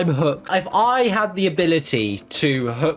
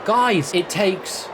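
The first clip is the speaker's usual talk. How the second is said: high, bouncy cheerleader tone, coaxing; chirpy mock pep talk to a gloomy fan; mock cheer-up; 4 semitones higher than usual. Presenter cheering up a gloomy fan, chirpy and high.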